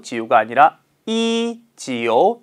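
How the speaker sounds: 지요가 아니라 이지요, slowed right down with each tone marked; slow tone demo. Shown as a demonstration. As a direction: spell out 이지요 slowly for the class. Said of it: "지요라고 발음해 주셔야 돼요".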